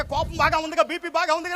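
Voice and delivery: mock call. Pastor mocks, calls to helpers.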